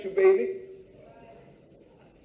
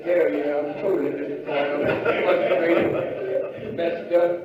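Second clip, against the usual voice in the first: lower, fast, fed-up confession; frustrated answerer; 8 semitones lower, 5 dB quieter than usual. Acted. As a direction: grumble it like a worn-out man. Preacher acts frustrated answerer.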